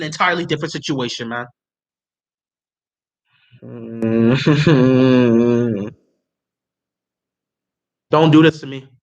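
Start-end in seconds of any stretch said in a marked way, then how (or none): 3.6-5.9 low, drawn-out groan swelling louder; long anguished groan. Real, not acted. Fan dreading the Jets pick, long anguished groan.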